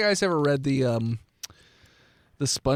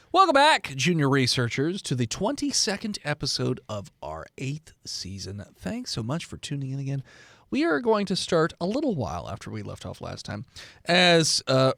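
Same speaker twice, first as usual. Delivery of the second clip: upbeat host welcome; podcast intro. Acted. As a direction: open the episode like a host. Game master opening the episode.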